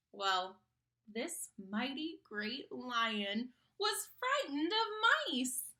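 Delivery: put-on lively sing-song reading to kids; story narration. A narrator's reading. Reading a picture book to a child, animated storytelling. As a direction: read the rhyme aloud to children with bounce.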